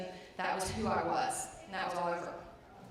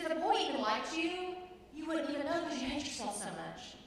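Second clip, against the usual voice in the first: cutting jab; 7 semitones higher than usual. Retold or imitated. Trainer's cutting remark.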